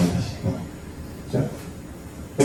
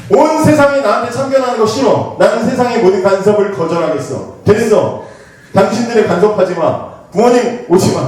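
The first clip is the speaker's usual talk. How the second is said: put-on rebellious teen; 4 semitones higher than usual. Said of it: "무슨 생각을 해?".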